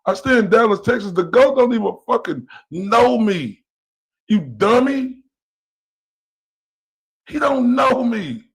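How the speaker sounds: loud and high, spitting it out; real furious shout; furious yelling. Real, not acted. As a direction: scream him down in anger. Screaming back in a heated argument.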